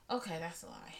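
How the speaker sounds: hushed little confession to herself; whispered aside. Real, not acted. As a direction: whisper it like owning up to a lie. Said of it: "Let me be quiet 'cause I'm lying".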